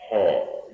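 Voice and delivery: "Haw" sounded with the throat open. Shown as a demonstration. Voice teacher demonstrating to open the throat, open-throated "Haw". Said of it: "sound the word haw".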